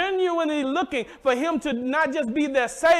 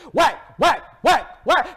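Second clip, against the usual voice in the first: quick, eager mock axe blows; fervent chopping sounds; slower than usual. Young lumberjack chopping with fervor, mock axe whacks. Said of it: "with all the fervor and the passion".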